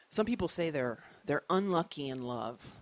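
ordinary delivery

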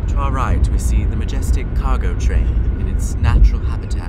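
lightly voiced wildlife narrator; quick mock documentary narration; nature documentary. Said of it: "You're like the David Attenborough of road trips".

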